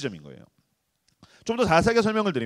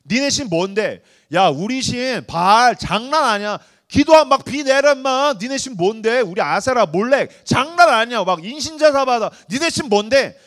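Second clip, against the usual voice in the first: boastful trash talk; 3 semitones higher, 5 dB louder than usual. Retold or imitated. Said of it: "신에 대한 이야기를 겁나 하는 거예요".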